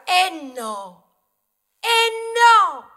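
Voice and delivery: un "no" che cresce fino al grido; da secco a urlato, indignato; protesta crescente. Acted. (da protesta decisa a grido forte e acuto)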